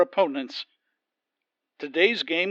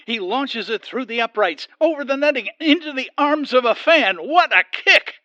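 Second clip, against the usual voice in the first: building louder and higher to the big call; excited play-by-play; 5 semitones higher, 7 dB louder than usual. Acted. Announcer calling the kick for viewers, excited build. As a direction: rise with the ball to its peak.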